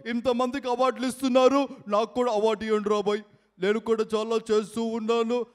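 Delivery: mildly loud, put-on heckler; mimicry voice. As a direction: hail them and lightly demand an award. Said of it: "unique mimicry concept". (కొంచెం గట్టిగా mimicry గొంతు)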